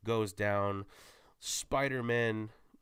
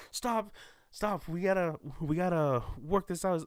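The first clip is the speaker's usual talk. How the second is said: exasperated cut-in; 8 semitones higher, 4 dB louder than usual. Retold or imitated. Teammates bicker, one cuts in.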